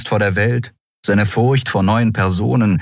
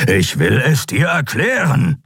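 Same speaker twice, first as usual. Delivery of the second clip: raised, insistent growl; 8 semitones higher than usual. A narrator's reading. Kero gripping Kai to explain, growling. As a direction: growl it urgently at a struggling man. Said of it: "knurrte Kero".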